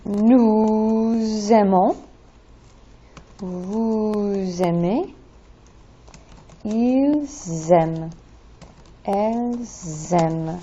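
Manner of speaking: very slow, stretched pronouns linked by a z sound; slow-motion teacher demo of the z liaison; drawn-out liaison. Shown as a demonstration. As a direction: draw out each pronoun and buzz the z into the verb. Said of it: "that is that linking, s-, that liaison".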